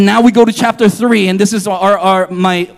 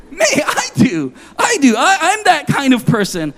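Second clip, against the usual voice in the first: laughing at himself, higher pitch; chuckling self-admission; laughing confession; 6 semitones higher than usual. Real, not acted. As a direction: admit it through a laugh. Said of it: "laughing at himself".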